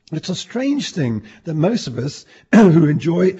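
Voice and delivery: hoarse, croaky throat. Real, not acted. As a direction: speak through a croaky sore throat. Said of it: "got a terrible cro-, crocky voice today".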